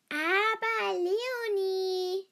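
high, drawn-out cry of dismay; slow, indignant outcry; loud protest. A narrator's reading. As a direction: stretch the name out in loud reproach. Shocked protest at hearing of promise.

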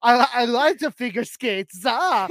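put-on a light German movie-guy accent; goofy German tourist voice; spoofing the German guy from comedy films with a mild German accent; mock German accent. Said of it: "a German guy in a Will Ferrell movie".

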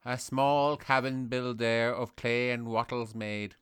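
put-on slow, solemn Sligo-accented poet reciting. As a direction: intone it like Yeats in a Sligo lilt. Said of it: "whatever I do is perfect Sligo".

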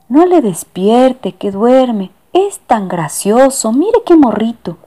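high, slow cooing plea; doting lady. Acted. Lady pleads for sleeping cat.

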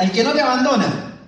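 mock shout. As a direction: call out the slogan like a crowd chant. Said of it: "en una grita".

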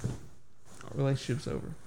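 unvoiced whispered repeat. Swearing off Little Caesars for good, repeated in a dramatic whisper. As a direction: breathe the line again as a dramatic whisper.

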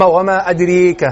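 وما أدريك drawn out slowly with a slight imala on the alif of أدريك; slow taqlil recitation. Shown as a demonstration. Teacher demonstrating taqlil slowly to students. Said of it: "بالتقليل".

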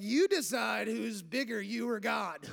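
dry sarcastic jab. Retold or imitated. Peter taunting the priests, dryly sarcastic. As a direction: needle them with mock politeness. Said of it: "I read some sarcasm into that".

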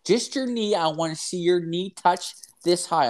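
high, chirpy mock kinesiologist. Imitating the kinesiologist setting up the knee test. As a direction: go up high and bright like a cheerful trainer.

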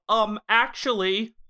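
mild know-it-all imitation, slowed down; know-it-all "um, actually". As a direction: lightly mimic someone showing off their knowledge. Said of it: "it's the robot version of".

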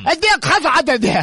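slurring with a swollen tongue; big-tongue slur. Acted. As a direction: talk like your tongue is too big. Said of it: "说话咋这样啊？".

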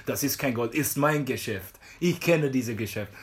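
slow mock broken-German shopkeeper; dismissive jeweller. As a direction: deliver a slow, stubborn foreign jeweller's verdict. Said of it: "mir von weitem gesagt hat". (langsam nachgeahmte, abweisende Juwelierin)

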